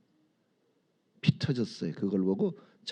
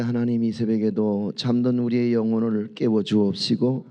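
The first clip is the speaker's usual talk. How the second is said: loud, fervent prayer voice; 4 dB louder than usual. Acted. Pastor praying over the dawn congregation, loud and fervent. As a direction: pray over the congregation with full conviction.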